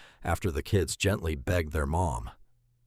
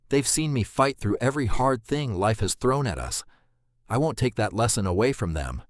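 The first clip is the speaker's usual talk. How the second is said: higher, cracking, holding back tears; 5 semitones higher, 3 dB louder than usual. Acted. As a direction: refuse through a breaking voice. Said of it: "her voice cracking for the first time".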